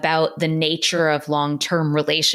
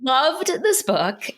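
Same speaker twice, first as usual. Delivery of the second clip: choked up; 7 semitones higher, much slower than usual. Real, not acted. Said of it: "I am getting choked up".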